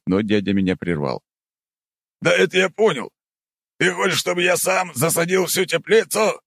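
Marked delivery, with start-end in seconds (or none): 2.2-6.4 high impatient interruption; impatient uncle voice. Acted. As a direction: cut in impatiently.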